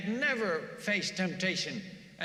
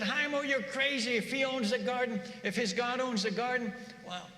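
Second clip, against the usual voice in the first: much higher, agitated protest; angry villagers; 4 semitones higher than usual. Retold or imitated. Villagers arguing with Haimo, higher mock anger. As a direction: scold Haimo as crazy, mock alarm. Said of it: "they're all getting angry at him".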